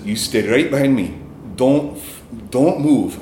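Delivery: attempted Scottish accent, firm order. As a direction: imitate a Scottish security man taking charge. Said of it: "try to do a Scottish accent here".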